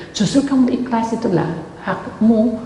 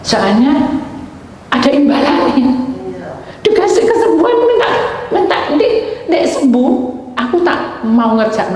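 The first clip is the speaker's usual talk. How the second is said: mocking laugh; 5 semitones higher, 4 dB louder than usual. Mocking the man's bargain with God.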